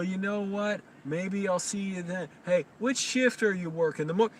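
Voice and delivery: high, airy chit-chat voice; mock chatty customer. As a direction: ham up a dawdling customer. Mocking a chatty customer at register.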